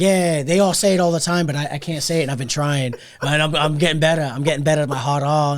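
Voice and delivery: imitated Boston man, dropped R's; Boston accent. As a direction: mimic a Boston guy with a light accent. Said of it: "something about his accent".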